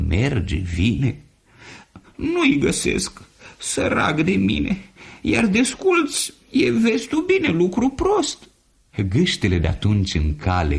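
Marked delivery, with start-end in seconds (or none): 2.1-8.5 lamenting gander. Acted. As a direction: whine it like a pitiful gander. Gander laments lost slippers.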